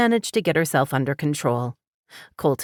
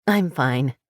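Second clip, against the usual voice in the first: a brave little smile in the voice; forced smile. A narrator's reading. Laurel brushing off Colton's concern with a forced smile. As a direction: smile through it, holding back. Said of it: "She managed a smile".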